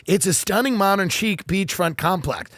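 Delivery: slow, gushing listing voice; hammed-up realtor copy; mock real estate blurb. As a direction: sell the house dreamily. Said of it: "write real estate blogs ... and go".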